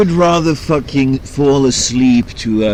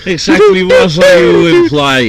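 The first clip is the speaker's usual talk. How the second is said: much higher, louder, outraged; indignant squeal; 8 dB louder than usual. Real, not acted. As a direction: shriek it in mock offense.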